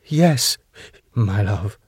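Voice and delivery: meek, hesitant answer; fearful. A narrator's reading. Husband submits to his wife, fearfully. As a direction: answer haltingly, a touch of fear. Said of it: "Max, quietly, fearfully".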